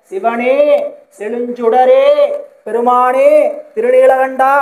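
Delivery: mock tearful calling, each name held at the end; imitated crying out. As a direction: call out to the god in lament, building slightly. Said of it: "கூப்பிட்டு அழுகிறா".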